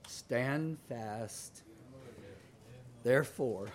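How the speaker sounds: choked up. Real, not acted. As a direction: voice catching with emotion on the verse. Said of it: "I don't know why I'm emotional right now".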